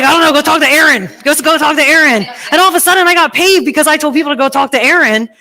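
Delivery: high, loud, laughing through it. Real, not acted. Laughing retelling, pitch and level up.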